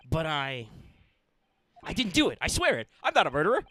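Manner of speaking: rising panicked pleading; desperate protest. Acted. Defendant protests innocence.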